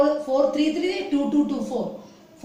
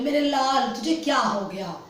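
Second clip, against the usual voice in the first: loving mother. Retold or imitated. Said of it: "mummy प्यार से बोले".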